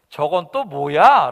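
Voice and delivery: loud, slow, drawn-out shout. Acted. David shouting at the giant while everyone trembles. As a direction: bellow it out in scorn. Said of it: "라고 소리 지르는 소리가".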